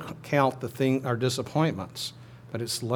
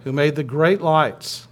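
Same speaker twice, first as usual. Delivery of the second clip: slow, louder proclamation; cantor's call; 5 dB louder, slower than usual. Pretend. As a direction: lead the congregation with a measured, projected line. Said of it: "I'm the cantor".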